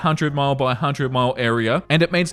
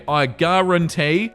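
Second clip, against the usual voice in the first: slow, drawn-out mock Southern guarantee; lightly imitated Southern drawl; Southern accent imitation; slower than usual. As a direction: ham up a TV Southern cook accent. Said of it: "in a ridiculous Southern accent".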